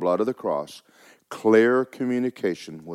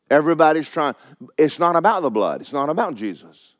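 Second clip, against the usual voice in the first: raised, forceful preacher's delivery; emphatic preaching; 6 semitones higher, 5 dB louder than usual. Acted. Preacher telling congregation Jesus made them perfect, emphatic preaching. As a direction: preach it with punched key words.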